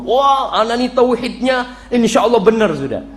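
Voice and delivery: a touch of smug self-praise, laughing; mock boast. Boasting congregant claims his tauhid is right, light mock smugness. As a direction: ham up the self-satisfied believer.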